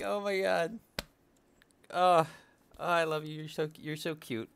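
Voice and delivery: put-on high, gushing baby-talk coo; gushing over sloths. Streamer imitating her own reaction to sloth videos, high gushing coo. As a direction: coo at it like a cuddly pet. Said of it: "And I'm like".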